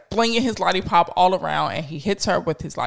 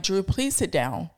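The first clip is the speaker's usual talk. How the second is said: softer, patient mom repeating the request; nice mommy voice, softer; 5 dB quieter than usual. Retold or imitated. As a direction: hold back, keep it sweet in public. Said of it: "Trying to use my nice mommy voice".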